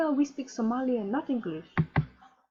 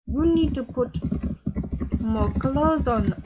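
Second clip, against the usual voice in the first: slow scolding. Acted. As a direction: spell it out to him slowly.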